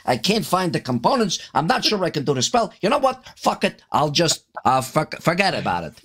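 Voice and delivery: hammed-up Yiddish accent, lilting; muddled Yiddish grandpa caster; Yiddish grandfather. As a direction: fuss like a forgetful Yiddish grandfather. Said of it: "I'm gonna be a Yiddish grandfather".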